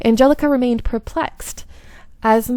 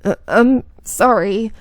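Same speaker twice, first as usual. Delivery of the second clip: faltering apology. Acted. Guilty confession, cut short.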